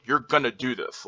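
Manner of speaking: firm statement falling on "do this"; confident drop onto THIS; downward inflection. Shown as a demonstration. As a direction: state "You're gonna do this" as settled, tune going down. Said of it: "Downward inflection".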